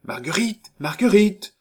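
voix jeune appelant haut et fort de loin; appel sonore. A narrator's reading. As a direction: crier le nom à travers la porte, de plus en plus fort. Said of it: "Une voix jeune et sonore appela". (un jeune homme appelle Marguerite de dehors, voix sonore)

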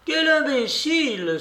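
put-on very high, indignant old-lady cry; outraged exclamation. A narrator's reading. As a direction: cry out in exasperation at a fool. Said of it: "s'écria la babouchka". (exclamation indignée de babouchka)

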